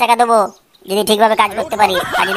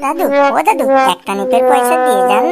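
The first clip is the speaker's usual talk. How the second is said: whining beggar. Acted. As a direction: wheedle coins from passers-by. Begging continues.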